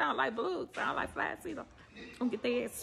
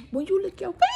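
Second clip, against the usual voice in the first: higher, rising on "finger"; playful repeat; 4 semitones higher, faster than usual. Acted. Savouring juice off her finger, playfully higher. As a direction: lift the end up high.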